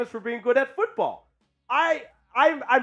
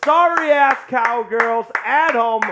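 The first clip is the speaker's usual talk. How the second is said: trash-talk hype; 5 semitones higher, 6 dB louder than usual. Real, not acted.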